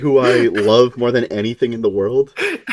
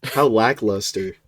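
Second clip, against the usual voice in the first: deadpan mock; 4 semitones lower, slower than usual. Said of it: "He's like".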